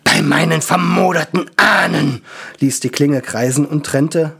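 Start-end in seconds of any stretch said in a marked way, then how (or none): 0.0-2.2 loud, higher battle shout; loud dwarf battle cry. Acted. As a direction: roar it as you swing the blade. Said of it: "Stramm schrie".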